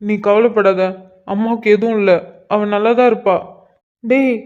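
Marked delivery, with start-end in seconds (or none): 4.0-4.4 higher, urgent anxious questions; panicked son. Acted. Son questions his father about his mother, higher and panicked. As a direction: beg to hear she's alright.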